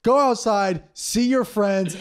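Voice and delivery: high, loud mock rant. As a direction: imitate a fired-up anti-mask rant. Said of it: "He's like".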